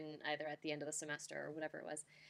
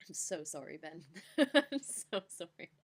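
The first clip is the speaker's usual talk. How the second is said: embarrassed laughing apology; 2 semitones lower than usual. Real, not acted.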